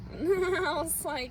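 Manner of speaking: high, slow laugh into the words. Real, not acted. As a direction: chuckle through it. Laughing at the memory.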